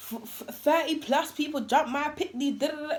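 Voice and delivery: Jamaican patois. Retold or imitated. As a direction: imitate a ranting mum in Jamaican patois. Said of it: "speaking bare patwa patwa".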